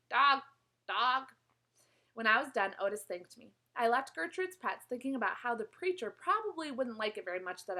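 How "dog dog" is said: quiet croak. Acted. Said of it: "croaking real quiet to herself".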